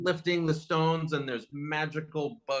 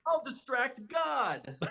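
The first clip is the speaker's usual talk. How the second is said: laughing quote; 10 semitones higher, slower than usual. Real, not acted. Quoting Cybok with a laugh.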